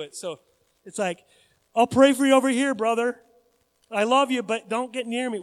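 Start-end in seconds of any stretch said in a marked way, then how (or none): 1.7-5.4 wary refusal. Acted. Acts someone avoiding a sick person.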